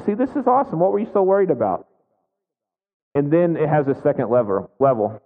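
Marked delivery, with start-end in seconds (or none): 0.0-1.9 higher, quick cheerful gloating; smug told-you-so. Retold or imitated. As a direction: rub in that it's all fine, fast. I'm like.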